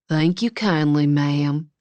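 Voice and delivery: a light, hammed-up Southern drawl; exaggerated Southern drawl. Wes teasing Avery at the diner, mock Southern drawl. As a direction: stretch it out in a mock Southern accent. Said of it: "he said in an exaggerated Southern drawl".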